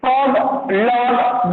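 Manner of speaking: फॉग लॉग said slowly to show the rhyme; slow rhyme demo. Shown as a demonstration. Teacher confirming a rhyme for pupils, slowly. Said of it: "डॉग और लॉग".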